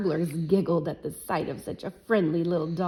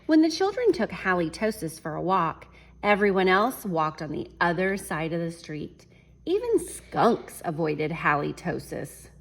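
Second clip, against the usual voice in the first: story reading; 4 dB louder than usual. A narrator's reading. Reads picture book to class.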